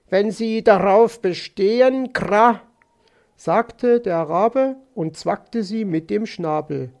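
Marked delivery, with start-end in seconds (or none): 0.1-2.6 louder, higher raven with a caw; comply as a cawing raven; croaking raven. Acted. (krächzender Rabe)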